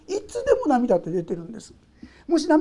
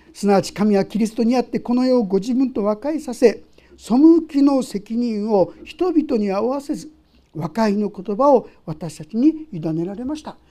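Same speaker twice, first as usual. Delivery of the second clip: scripture reading; 6 dB louder than usual. Acted. Reads scripture aloud.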